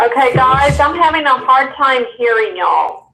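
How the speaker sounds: thin, crackly phone audio; crackly cordless phone. Real, not acted. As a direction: voice over a speakerphone line. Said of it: "she's going through the phone".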